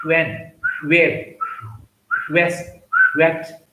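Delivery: "when", "where", "west" with rounded lips; teacher W sound. Shown as a demonstration. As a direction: round the lips for each W word. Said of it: "lips make a circle".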